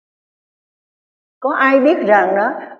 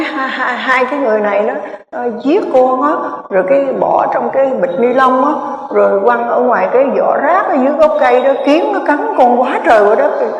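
put-on a touch higher, plaintive child; lightly voiced child spirit; 3 semitones higher than usual. Aborted child's spirit accusing the couple, mild plaintive child voice. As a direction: voice the lost child telling its story, mildly.

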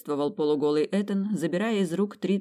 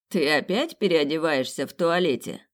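mocking tone; 4 dB louder than usual. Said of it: "издевался тоном".

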